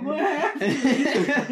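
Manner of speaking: drawn-out, clueless "what happened"; slow mock innocent. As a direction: play dumb, stretch it slowly. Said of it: "And you're just like".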